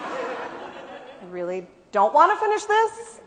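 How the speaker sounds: retold reluctance, slow and half-mad. Author retelling her protest to her son, half mad. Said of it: "I was half mad".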